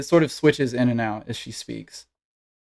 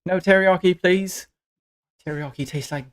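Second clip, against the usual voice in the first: put-on eager little girl; 6 semitones higher than usual. Girl asks her idol for jerky, high and earnest. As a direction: place your order with childish earnestness. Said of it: "She's like".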